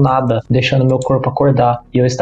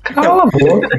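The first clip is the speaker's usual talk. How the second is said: high, mock-annoyed snap; playful shut up; 11 semitones higher than usual. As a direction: tell them to shut it jokingly. Teasing shutdown, high voice. (cala a boca brincalhão com voz aguda)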